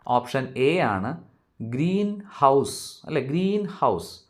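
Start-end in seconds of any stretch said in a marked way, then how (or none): 1.6-3.0 "ഗ്രീൻ ഹൗസ്" slowly, weight on "ഗ്രീൻ"; first-part stress. Shown as a demonstration. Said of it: "primary stress first പാർട്ടിന് കൊടുക്കുന്നത്". 3.2-4.2 "ഗ്രീൻ" pitched high, "ഹൗസ്" falling; teacher's stress demo, "ഗ്രീൻ" lifted above "ഹൗസ്"; first-part stress. Shown as a demonstration. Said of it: "second പാർട്ടിനില്ല".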